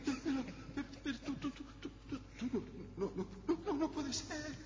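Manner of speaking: frightened stammering; stammering in fear. Acted. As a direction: stutter with fright. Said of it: "deja de tartamudear".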